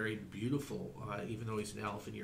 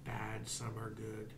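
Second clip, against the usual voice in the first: whispered; 5 dB quieter, slower than usual. Acted. Elf whispers gravely.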